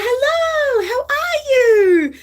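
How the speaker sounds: high, bright-pitched cheery hello; high sing-song greeting to a stranger; friend's chirpy greeting. Retold or imitated. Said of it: "She'd be like".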